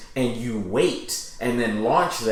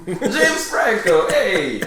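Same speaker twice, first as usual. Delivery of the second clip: higher, drawn-out, badly faked Filipino accent; attempted Filipino accent; 6 semitones higher, much slower than usual. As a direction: have a failed go at a Filipino accent. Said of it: "I can't do a Filipino accent".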